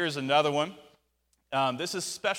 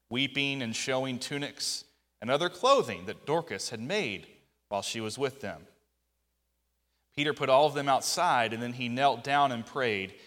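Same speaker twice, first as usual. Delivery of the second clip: measured public Bible reading with pauses; scripture reading. Real, not acted. Preacher reads the Tabitha story to the congregation, measured scripture reading. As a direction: read the passage out clearly, phrase by phrase.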